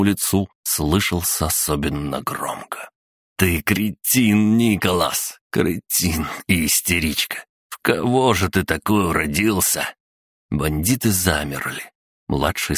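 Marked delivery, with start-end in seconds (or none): 3.4-9.9 slightly raised, scolding voice; exasperated father. Acted. Father berates son who gave them away, exasperated. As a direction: draw out the insult in exasperation.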